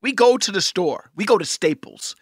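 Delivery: a hint of a fiery preacher. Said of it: "why do you sound like a preacher all of a sudden".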